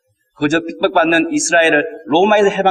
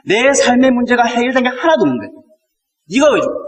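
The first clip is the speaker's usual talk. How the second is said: talking back hotly; 4 semitones higher than usual. Retold or imitated. Peter talking back to Jesus, higher and insistent. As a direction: challenge him, demanding why he must die. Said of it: "진짜 예수께 대들어요".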